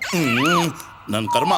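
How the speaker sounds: exasperated. Real, not acted. Boss exasperated by silent driver.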